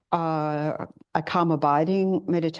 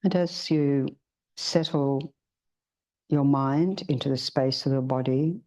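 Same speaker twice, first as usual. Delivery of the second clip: guided meditation. Acted. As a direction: ease the group gently into stillness.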